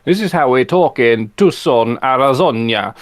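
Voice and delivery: lightly imitated outlandish pronunciation; a touch of oddball enunciation; Matt Berry. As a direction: put a mannered twist on the place names. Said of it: "pronouncing things in a really, really outlandish way".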